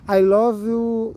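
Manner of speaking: slow, careful English, each word laid out; slow English demo. Shown as a demonstration. Vlogger showing viewers simple English, slowly. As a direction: spell it out slowly for learners. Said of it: "Você vai falar".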